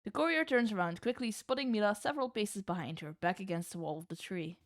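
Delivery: steady narrator read; measured scene-setting; story narration. A narrator's reading. GM narrates the climb.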